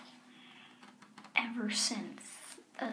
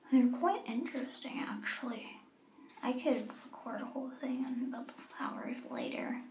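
whispering. Acted. Hiding from guards outside door.

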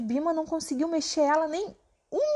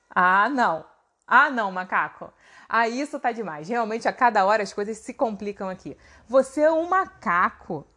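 exasperado; 2 semitones lower, 4 dB louder than usual. Acted. Bima exasperado com o macaco.

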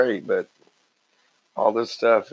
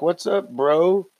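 higher, drawn-out nervous imitation; mock nervous greeting; 7 semitones higher, 4 dB louder, much slower than usual. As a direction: stretch it out, imitating an awkward hello. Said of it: "he's all nervous".

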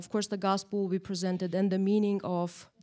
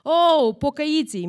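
mocking; 5 semitones higher, 10 dB louder than usual. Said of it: "that's how they call the Christians".

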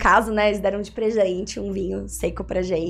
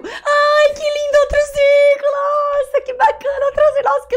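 very high delighted squeal; mock excited squeal; 6 dB louder than usual. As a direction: gush like a thrilled kid.

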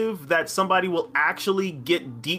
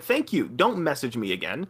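calm; 6 semitones lower, 3 dB quieter than usual. Retold or imitated. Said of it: "I very calmly said".

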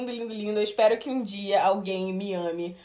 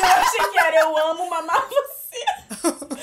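laughing; 5 semitones higher, 3 dB louder than usual. Retold or imitated. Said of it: "a minha mente foi pra mamar".

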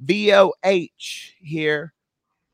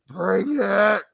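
a mock wrestler's rallying shout, a bit higher; heroic rallying shout; 4 semitones higher than usual. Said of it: "and be like".

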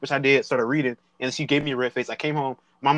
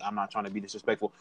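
meek; 7 semitones lower, 8 dB quieter than usual. Retold or imitated. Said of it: "I'm like".

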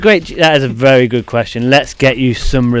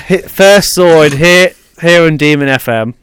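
slow, loud, booming declaration; grand announcer; 4 semitones higher, 3 dB louder, slower than usual. Acted. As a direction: proclaim the winner like a herald. Host crowns the contest winner.

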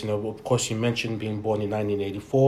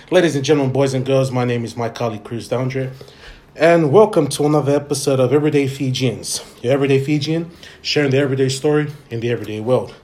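announcer voice opening the show; grand entrance announcement. Acted. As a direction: welcome listeners like a host. Podcast host opening announcement.

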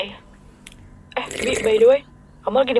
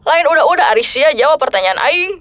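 rough Sundanese scolding. Acted. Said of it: "ngomongnya kasar kayak gitu".

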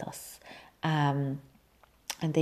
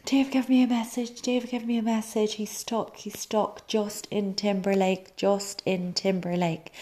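retold excited announcement; 5 semitones higher than usual. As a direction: burst out with the news to family, reliving it. Retelling telling family the news excitedly.

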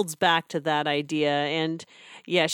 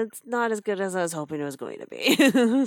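underwhelmed. Retold or imitated. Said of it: "It's like".

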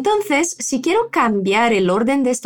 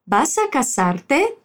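"¿Vas a casarte?" slow, with a question rise; slow model phrase; slower than usual. Shown as a demonstration. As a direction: spell out "¿Vas a casarte?" slowly for a learner.

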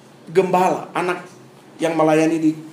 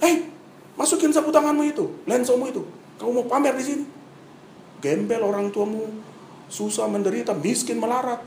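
angry teacher; 3 semitones higher, 3 dB quieter than usual. Retold or imitated. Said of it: "Dia marah".

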